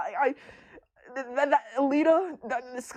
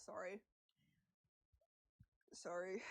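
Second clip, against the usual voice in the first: very soft, low apology; sheepish sorry; 5 semitones lower, 23 dB quieter than usual. Real, not acted. Streamer apologising after outburst, very soft. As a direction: murmur it, embarrassed. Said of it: "I got really heated".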